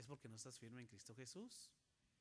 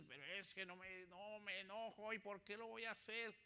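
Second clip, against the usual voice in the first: grumbling excuse; 4 semitones higher than usual. Acted. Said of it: "Hay momentos en que dices".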